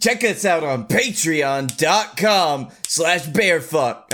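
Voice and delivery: drawn-out announcer plug over music; very slow mock sponsor tag; slow ad read. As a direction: read it slowly like the end of a commercial.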